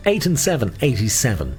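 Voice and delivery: sing-song number calling; bingo caller. Acted. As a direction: lilt each number like a bingo hall.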